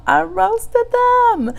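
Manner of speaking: very high, drawn-out squeal on roasted them; squealed repeat. Retold or imitated. Telling her livestream she roasted them, high slow squeal. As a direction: stretch it out in a high gleeful squeal.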